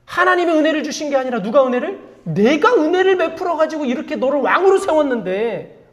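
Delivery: acted indignant grievance; wounded-pride anger. General protests he made the king, acted indignant anger. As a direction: complain with hurt pride, mildly hammed-up. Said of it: "분노하고 있어요".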